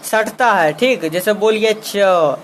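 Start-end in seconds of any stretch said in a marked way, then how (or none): 1.8-2.4 slow, isolated च sounded twice; say it slowly. Shown as a demonstration. Teacher showing students how to say च slowly. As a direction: gently repeat च so the tongue is felt. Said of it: "धीरे से बोलिएगा".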